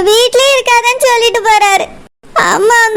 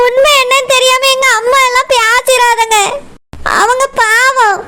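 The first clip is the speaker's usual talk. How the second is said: tearful plea. Acted. Wife pleads crying for mother.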